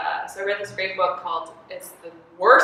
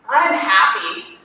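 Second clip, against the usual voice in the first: slow sincere; 3 semitones higher, 7 dB louder, much slower than usual. Retold or imitated. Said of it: "And he goes".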